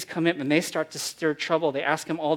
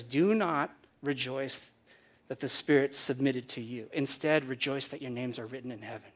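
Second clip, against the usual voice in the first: gentle correction; 4 semitones lower, 5 dB quieter than usual. Acted. Jesus quoted gently.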